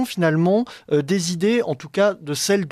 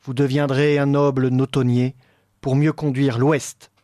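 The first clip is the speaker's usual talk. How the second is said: poem recitation. Acted. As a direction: recite it like a stage role. Reads the poetic dialogue aloud.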